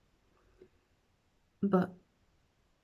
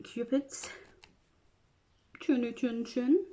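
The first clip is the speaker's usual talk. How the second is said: usual speaking voice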